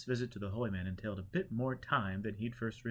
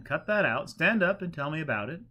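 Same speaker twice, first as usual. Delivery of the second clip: put-on louder, gently scolding old teacher; holy man; 6 semitones higher, 7 dB louder than usual. A narrator's reading. Holy man telling kneeling pilgrim to stop, louder. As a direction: wave off the fuss kindly.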